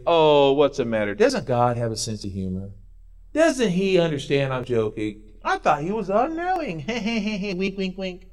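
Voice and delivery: lightly voiced smug scoffer, with a chuckle; a hint of a sneering joker teasing; mocking scoffer. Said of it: "I'm mocking them for mocking God".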